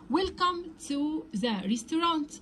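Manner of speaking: slow, clear waiter greeting. Shown as a demonstration. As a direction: greet the customer slowly like a waiter. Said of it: "الجرسون بيبدأ يقول له". (جرسون يرحب بالزبون ببطء)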